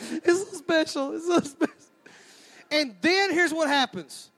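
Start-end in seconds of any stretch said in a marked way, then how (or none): 0.1-1.7 mock weepy lady. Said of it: "y'all start crying at that point".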